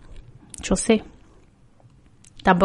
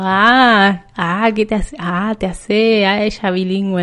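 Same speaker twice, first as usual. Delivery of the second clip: drawn-out teasing "ah"; mocking heckler; slower than usual. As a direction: jeer like someone mocking a show-off. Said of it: "siempre hay alguien diciendo". (burla exagerada, imitando al que carga)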